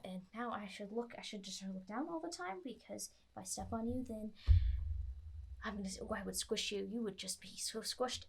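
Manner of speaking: soft, fretful rambling giant; anxious giant. Acted. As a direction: worry aloud, quietly and apologetic. GM voices the giant wart.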